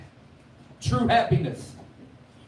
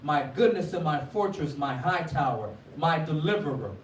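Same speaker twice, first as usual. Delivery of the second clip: measured scripture reading, a touch of preaching lift; 3 semitones higher than usual. Acted. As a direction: read the psalm with solemn lift. Reads the Psalm aloud.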